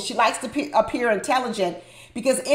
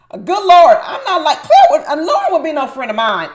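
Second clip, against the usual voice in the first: laughing; 4 semitones higher, 6 dB louder than usual. Real, not acted. Laughing in disbelief at scene.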